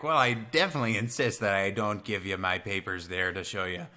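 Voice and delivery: polite mock Canadian insisting; Canadian accent. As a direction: lightly put on a Canadian accent. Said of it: "Canadians are, are nicer people".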